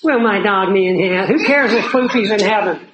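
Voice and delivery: mildly mocking the question; a hint of smug ridicule; scoffing mockery. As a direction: repeat it with a sneer, brushing it off. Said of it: "walk away and say, "What an idiot".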